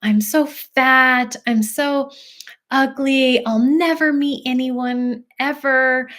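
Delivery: mock a child's woe, dragging out the put-downs; upset child. Child confiding self-loathing to a parent, lightly acted upset. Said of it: "your own child came to you and started telling you".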